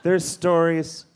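loose, slightly slurred tipsy speech. Real, not acted. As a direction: talk like you've had a few drinks. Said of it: "I'm so hammered right now".

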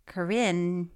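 Corinne stopping on the N; silent final E. Shown as a demonstration. Reader unsure of a name, Corinne without the E. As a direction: say Corinne as kuh-RIN. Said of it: "pronounced the E at the end".

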